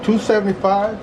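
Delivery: windy outdoor recording; wind on mic. Real, not acted. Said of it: "you're gonna have to excuse the, the wind noise".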